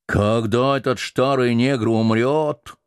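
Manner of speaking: lightly voiced slow old cook; slow old man. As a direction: speak it slowly like an old man. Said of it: "медленно проговорил старик".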